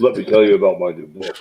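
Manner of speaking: voice scrambler. Pretend. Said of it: "If we had a voice scrambler".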